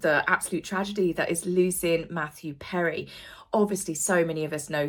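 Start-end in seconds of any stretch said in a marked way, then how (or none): 0.0-3.1 sad whisper. Real, not acted. Somber news of a death.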